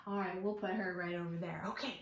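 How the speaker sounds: quick whispered aside. Real, not acted. Storyteller to herself while moving the bear, whispering. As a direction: murmur it while placing the bear.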